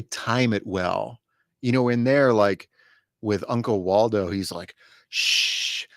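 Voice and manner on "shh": unvoiced drunken shush. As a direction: hiss a sloppy drunk shh. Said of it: "he's just insanely loud 'cause he's so drunk".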